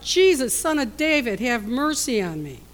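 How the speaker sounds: loud pleading cry, high on Jesus. Retold or imitated. Blind beggar calling to Jesus over the crowd, pleading cry. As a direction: call out desperately over the crowd. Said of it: "he began to cry out".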